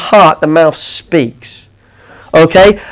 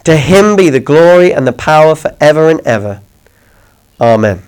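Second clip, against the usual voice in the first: scripture reading; 3 semitones lower than usual. Acted. Preacher reading scripture to the congregation, measured and reverent. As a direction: read the verse with reverence, unhurried.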